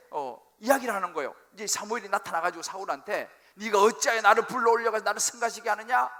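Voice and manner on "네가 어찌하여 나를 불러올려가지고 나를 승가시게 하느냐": loud scolding from the prophet; stern rebuke. Acted. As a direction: thunder it down at the king. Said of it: "막 호통을 치는 거예요".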